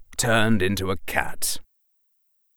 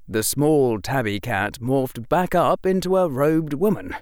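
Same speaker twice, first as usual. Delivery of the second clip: plain reading voice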